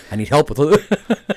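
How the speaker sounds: high, loud and slow, laughing through it; laughing plea. Retold or imitated. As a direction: beg for help while cracking up. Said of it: "And Dwayne goes".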